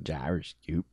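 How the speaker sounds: low, soft mangled Australian "Gyroscope"; botched Australian accent. Retold or imitated. Co-host echoing the tough word, botched Australian accent. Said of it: "Australian accent".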